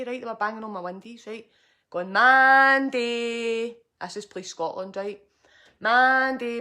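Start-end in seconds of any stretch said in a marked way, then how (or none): 2.1-3.8 loud calling shout up high; hammering on the windows, shouting her name; imitated police shout. 5.8-6.6 loud calling shout up high; hammering on the windows, shouting her name; imitated police shout.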